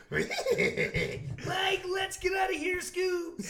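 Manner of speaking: high, shouted panicky cartoon voice with laughs; cartoon sidekick. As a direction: yelp it like a scared cartoon character. Cartoon Shaggy and Scooby impression.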